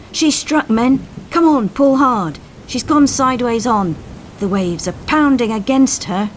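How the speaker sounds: high alarmed call to the crew; alarmed shout. Acted. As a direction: cry out over the storm as the ship hits. Coxswain shouting as ship strikes.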